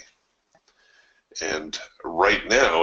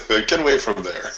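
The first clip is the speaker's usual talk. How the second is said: laughing urging; 3 semitones higher than usual. Real, not acted.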